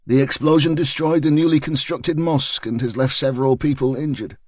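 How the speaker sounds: a crisp TV reporter's bulletin; news report. Acted. Reporter outside the hospital reporting the blast, news style. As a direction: read it like a live news piece to camera.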